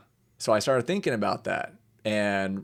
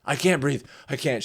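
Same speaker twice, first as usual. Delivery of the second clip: higher, louder imitated panic; mock panic; 4 semitones higher, 4 dB louder than usual. Panicking patient at the emergency room, mildly frantic imitation. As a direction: play a patient lightly panicking.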